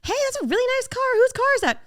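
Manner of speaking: high, loud call across the lot; bright call-out. Retold or imitated. Walking up to the car, calling out who owns it. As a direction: announce it to everyone.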